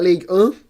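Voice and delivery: "League un" with "un" as a French nasal grunt; mock French pronunciation. Shown as a demonstration. Introducing the French league, "League un" said the French way. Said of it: "the only way you can pronounce that".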